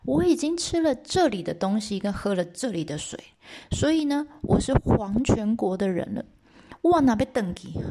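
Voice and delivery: a hint of the wife explaining, emphatic; lightly acted explanation to a husband; lightly voiced wife. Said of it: "她说呢".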